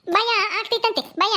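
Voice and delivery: mother-in-law mocks the frightened daughter-in-law, laughing; mocking laugh. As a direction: laugh at her fear. Mother-in-law mocks her fear.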